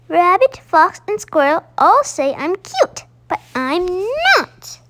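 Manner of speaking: an upset little owl near tears; tearful complaint. Acted. Baby Owl complaining it's unfair.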